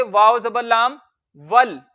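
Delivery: वाव जबर लाम वल spelt slowly, joining वाव to लाम; spelling drill. Shown as a demonstration. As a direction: drill वल as one joined syllable. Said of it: "तो इसको क्या पढ़ेंगे?". (धीरे-धीरे वल मिलाकर)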